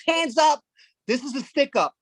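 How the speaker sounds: alto y tenso, un atraco fingido; mock robber shout. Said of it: "some guy comes in and he goes".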